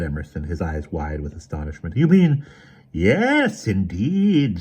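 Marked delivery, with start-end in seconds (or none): 2.0-2.4 astonished. A narrator's reading. Emerson astonished. 2.9-4.6 snapped. A narrator's reading. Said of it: "snapped the Autarch".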